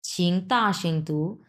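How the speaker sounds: ছিং তা সিং তু very slow, tones clear; slow Mandarin demo. Shown as a demonstration. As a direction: say ছিং তা সিং তু slowly like a teacher. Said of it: "ছিং মানে হচ্ছে please".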